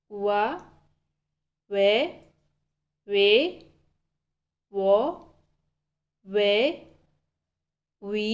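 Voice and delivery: ये, वा, वे, वे, वो, वे, वी, ई each said as a separate, clipped Korean vowel with a pause after it; Korean vowels read slowly. Shown as a demonstration. Teacher sounding out Korean vowels for Hindi learners, crisp and deliberate. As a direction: model each vowel one by one. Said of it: "एक बार फिर से".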